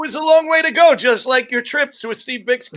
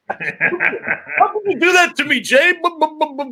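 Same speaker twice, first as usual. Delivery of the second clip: Vinny Nardiello; 4 semitones higher than usual. Acted. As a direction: plead as an impression, babbling bu-bu at the end. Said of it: "do your Vinny Nardiello impressions".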